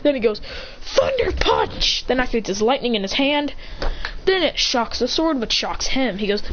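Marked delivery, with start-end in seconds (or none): 0.8-2.0 slow low battle cry. Acted. Hero calls attack name.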